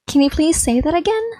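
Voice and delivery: amused. Acted. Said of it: "She's now amused".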